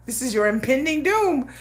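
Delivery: lightly voiced menacing villain; ominous Vader-style threat, understated; Darth Vader voice. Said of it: "I'm like".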